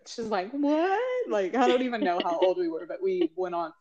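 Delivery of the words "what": high startled yelp; startled what. Retold or imitated. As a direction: jolt awake in alarm. Sister startled awake by bear.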